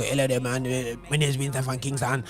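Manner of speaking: half-hearted imitation of a Caribbean accent; Winston. Presenter demonstrating a comedian's offensive act, weak Caribbean accent imitation. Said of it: "he used to do the accent".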